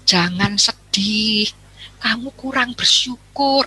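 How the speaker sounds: slow, drawn-out lecturing; preachy scolding. Retold or imitated. Friend lectures a grieving widow, slow and preachy. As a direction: stretch out the reproach. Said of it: "pantang buat kita mengatakan".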